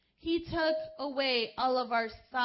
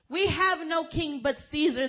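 loud, raised defiant answer; defiant reply; 4 semitones higher, 8 dB louder than usual. Acted. Chief priest answering Pilate, loud and defiant. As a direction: throw it back at Pilate defiantly. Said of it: "the chief priest answers".

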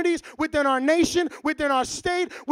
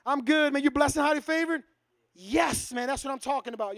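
mock Christianese chat; 5 dB quieter than usual. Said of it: "We talk Christianese".

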